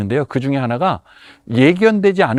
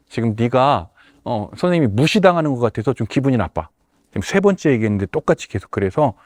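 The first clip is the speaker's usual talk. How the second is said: serious and composed. Shown as a demonstration. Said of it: "그때 정색을 하고".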